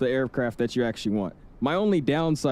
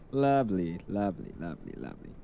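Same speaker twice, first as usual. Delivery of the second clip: sarcastic; 7 semitones lower, 5 dB quieter than usual. Real, not acted. Broken GSX profile, dry reaction.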